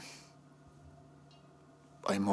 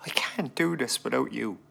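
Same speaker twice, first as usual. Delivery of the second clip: broken whisper; 4 semitones higher than usual. Acted. Husband breaking down quietly.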